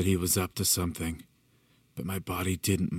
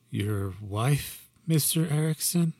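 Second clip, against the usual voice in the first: startled question; 7 semitones higher, 4 dB louder, slower than usual. Acted. Narrator voiced, tense question.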